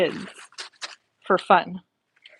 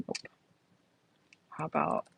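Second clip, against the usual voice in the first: whispering; 11 dB quieter than usual. Real, not acted. Searching quietly to herself.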